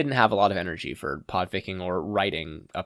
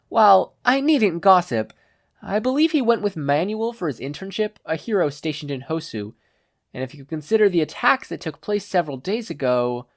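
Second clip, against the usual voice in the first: put-on much higher, refined young lady; Momo's voice; 8 semitones higher, 3 dB louder than usual. Momo thanking Shoji, high refined exclaiming voice. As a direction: gush thanks like a polite class president.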